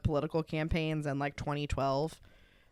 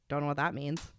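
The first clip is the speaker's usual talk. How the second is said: ordinary delivery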